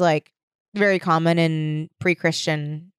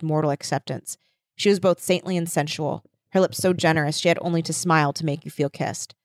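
reading aloud; 2 semitones lower, faster than usual. Acted. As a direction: read the passage gently. Reads book passage aloud.

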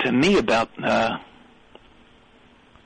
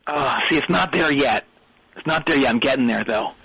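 talking through a reverb unit; 5 dB quieter than usual. Real, not acted. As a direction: voice drenched in echo. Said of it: "Well, I can hear that".

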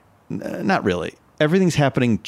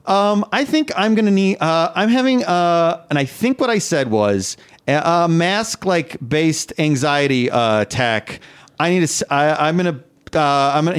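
put-on lightly higher, flustered child voice; third grader voice; 4 semitones higher than usual. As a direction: stammer like a nervous kid. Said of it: "turn into a third grader".

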